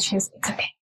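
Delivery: soft, quiet comfort; gentle reassurance. Retold or imitated. Abby soothing the labouring mother, soft and gentle. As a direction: murmur it gently to soothe her. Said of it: "she's so sweet and, like, gentle".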